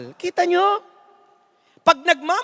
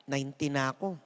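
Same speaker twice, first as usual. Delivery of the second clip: much lower and much softer, tired; a weary old woman answering softly; frail old woman; 12 semitones lower, 13 dB quieter than usual. Acted. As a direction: murmur it like a worn-out old lady.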